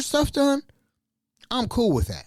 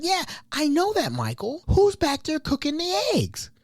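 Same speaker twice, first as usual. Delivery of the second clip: irritated guest; 11 semitones higher than usual. Retold or imitated. Guest complaining about eggs.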